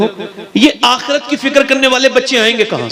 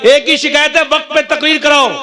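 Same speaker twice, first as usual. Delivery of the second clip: raised, declamatory pitch; emphatic preaching; 6 semitones higher than usual. Acted. Preacher stating his one complaint, high emphatic appeal. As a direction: lift it into a public appeal.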